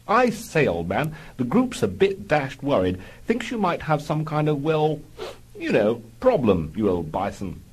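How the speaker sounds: Algy worrying about his chum, mock posh; mock posh airman. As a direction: fret politely like a stiff-upper-lip officer. Algy's plummy voice.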